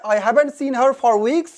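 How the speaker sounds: very slow, careful read of an example; slow example sentence. Shown as a demonstration. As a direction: spell it out for learners. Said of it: "वो है British English". (धीमा उदाहरण वाक्य)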